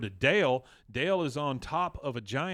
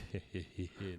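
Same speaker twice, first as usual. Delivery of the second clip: soft imitation of an evil giggle; quiet, mock-maniacal tittering; lightly acted sinister chuckle; 5 semitones lower, 13 dB quieter than usual. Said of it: "but it's maniacal sounding".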